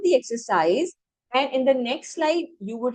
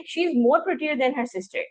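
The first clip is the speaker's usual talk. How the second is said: "She is more prettier than her sister" read as one smooth flowing line; 3 semitones higher, much slower than usual. Shown as a demonstration. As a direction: run the sentence together smoothly. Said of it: "flow में पढ़ें". (पूरा वाक्य एक प्रवाह में बहते हुए पढ़ें)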